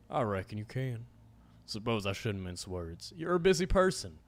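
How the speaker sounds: a hint of a drawling menacing cowboy; lightly voiced stranger, venom under the charm. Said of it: "my cowboy voice".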